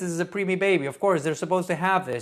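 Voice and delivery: fast, impatient put-down from a condescending doctor; condescending clinician. Retold or imitated. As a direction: brush off the new nurse like a mild jerk. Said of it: "basically say".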